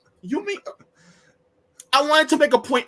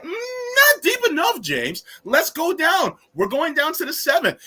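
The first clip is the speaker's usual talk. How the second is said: imitating host; 8 semitones higher than usual. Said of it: "And you were like".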